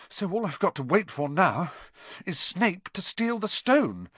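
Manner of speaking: put-on high, agitated boy's voice; feverish. A narrator's reading. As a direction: press on feverishly, dwelling on the threat. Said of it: "Harry went on feverishly".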